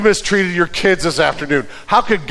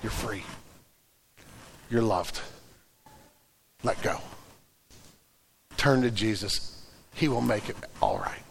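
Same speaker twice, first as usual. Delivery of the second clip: gentle reassurance; 8 semitones lower, 14 dB quieter than usual. Acted. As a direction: speak it like a comforting hand on the shoulder. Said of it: "the Spirit is saying".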